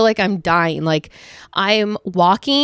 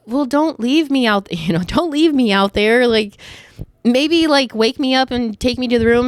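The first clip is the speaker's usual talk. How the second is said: high-pitched, mildly indignant pleading; retold protest; 5 semitones higher than usual. To partner who left her on the couch, mock-indignant pleading. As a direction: replay a half-joking complaint, pitched up.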